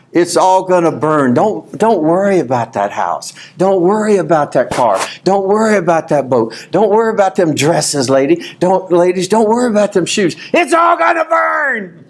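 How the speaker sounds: preacher replaying his camp sermon to the church; old sermon replay. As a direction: hammer it home and end with a cry. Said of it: "I preached a sermon on".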